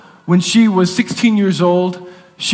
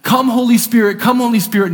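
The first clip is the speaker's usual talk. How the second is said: crying out to God; 2 semitones higher than usual. Retold or imitated. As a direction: call on God in urgent prayer. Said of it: "he's crying out to God".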